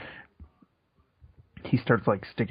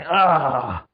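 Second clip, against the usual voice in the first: acted aroused cry; 4 semitones higher, 6 dB louder than usual. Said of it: "He's like".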